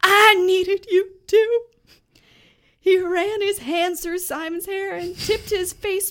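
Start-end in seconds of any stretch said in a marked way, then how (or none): 0.0-1.6 louder, slow, a touch gruff; hammed-up gruff confession; gruffly. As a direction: grunt it out like a tough guy. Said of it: "Tom said gruffly".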